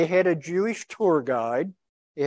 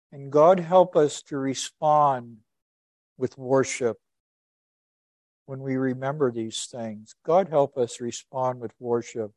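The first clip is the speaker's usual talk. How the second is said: earnest, measured prayer voice; pastoral prayer. Acted. Closes the sermon in prayer.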